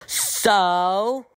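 raising the voice on the phone. Acted. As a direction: speak up for someone who can't hear. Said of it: "Louder, please".

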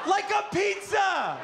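high, slow comic exclamation; squawked, exasperated punchline; incredulous shout. Real, not acted. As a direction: stretch it out in high-pitched disbelief.

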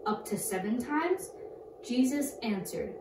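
clear, loud Bible reading voice; scripture reading. Acted. Girl reads scripture to kids, loud and clear. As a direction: read the verses out to the class.

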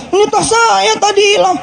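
lightly voiced surprised lady; a hint of the robbed lady. Old woman answering officer.

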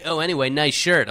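lightly put-on club flirt; club pickup voice. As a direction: imitate a pal's pickup patter. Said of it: "talks like this".

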